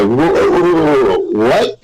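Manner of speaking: high, rising surprised whoa; stunned whoa. Retold or imitated. Retelling the call with the leader, surprised. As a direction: blurt it out in disbelief.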